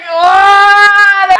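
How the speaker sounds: high, loud drawn-out "what"; shocked cry. Real, not acted. Reader reacting to the last evening line, shocked cry. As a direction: wail it out in disbelief.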